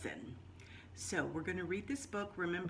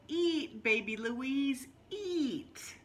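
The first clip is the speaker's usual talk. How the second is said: coaxing grandma; 4 semitones higher, slower than usual. Acted. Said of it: "She said".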